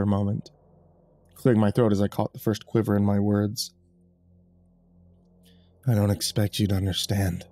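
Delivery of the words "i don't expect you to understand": tired murmur. Acted. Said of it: "he murmured in that same tired tone".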